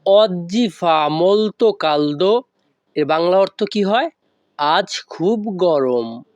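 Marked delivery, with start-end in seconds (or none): 0.1-2.4 "oggi fa molto caldo" slowly but joined as one phrase; all together. Shown as a demonstration. Teacher saying the whole sentence at once, "oggi fa molto caldo" joined up. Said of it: "তাহলে একসাথে বললে কি হয়".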